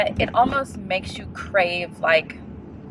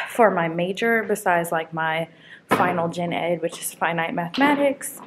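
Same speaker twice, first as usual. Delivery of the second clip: breathless after walking; winded, catching air between phrases; out of breath. Real, not acted. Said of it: "I'm out of breath".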